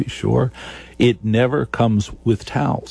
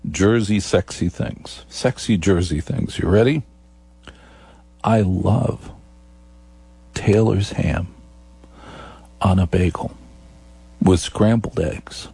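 Jersey sexy talk; 2 semitones lower than usual. Shown as a demonstration. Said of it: "let me speak to you in Jersey sexy things".

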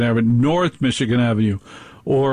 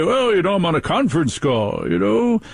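hammed-up self-important tone, higher on the well and the final you know; mock grandiose; 5 semitones higher than usual. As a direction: puff yourself up like a big shot. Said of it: "they become grandiose and say".

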